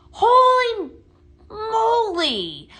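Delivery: high, loud gasping wonder; amazed exclaim. Real, not acted. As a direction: gush like you've seen magic. Amazed at lit lantern.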